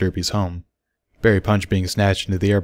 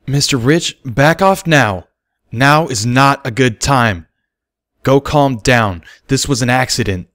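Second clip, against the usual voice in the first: wheezed; 5 semitones higher, 5 dB louder, slower than usual. Acted. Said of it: "wheezed Bucky".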